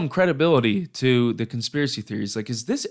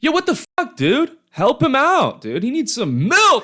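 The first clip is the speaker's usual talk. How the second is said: mock panic; 11 semitones higher, 4 dB louder than usual. Mock panic over cartoon scene.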